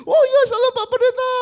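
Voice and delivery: high, laughing greeting; laughing mimicry. Pastor laughing as he mimics the young congregant's greeting.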